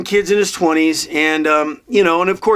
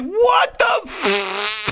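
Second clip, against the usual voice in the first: mock disgust; 4 semitones higher, much slower than usual. Exaggerated disgust at old-man talk.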